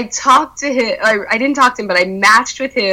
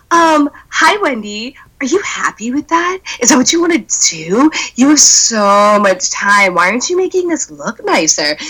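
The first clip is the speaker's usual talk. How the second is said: mean judge; 4 semitones higher than usual. Retold or imitated. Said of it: "Gigi walks over and she's like".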